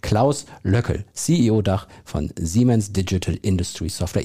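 slow, deliberate announcer voice; movie trailer voice. Shown as a demonstration. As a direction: announce the name like a cinema trailer. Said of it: "mit meiner tollen Kinostimme versucht zu spielen".

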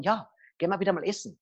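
quick, eager, rising agreement; lively, eager yes with a lift at the end; enthusiastic yes. Shown as a demonstration. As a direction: say it like you're still on fire for it. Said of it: "in dir brennt's noch drinnen".

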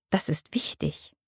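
soft whisper, like sharing a secret; whispered secret between mother and son; conspiratorial whisper. A narrator's reading. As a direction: whisper it like an accomplice. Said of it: "Es klingt komplizenhaft".

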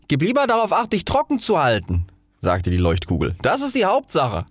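high, brisk advice; practical flare. Acted. Flare advises the rocket to stay dry, brisk. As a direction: keep it sensible.

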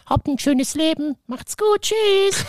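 high, sing-song brush-off; dismissive goodbye. Retold or imitated. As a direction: wave them off breezily. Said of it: "wo ich dachte so".

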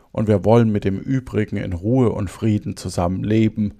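measured, clearly articulated storytelling; fairy-tale narration. Acted. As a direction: read the tale aloud phrase by phrase. Reads a fairy tale aloud. (ruhig ein Märchen vorlesen)

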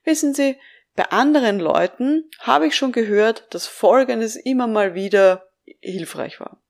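demonstrating tactful, unhurried advice; careful, tentative suggestion. Shown as a demonstration. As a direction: offer it cautiously, leaving room to refuse. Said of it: "Formulieren Sie da ganz vorsichtig sowas wie".

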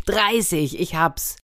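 pleased eureka; sudden remembering. A narrator's reading. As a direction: pounce on the forgotten answer. Anteater suddenly remembers the number.

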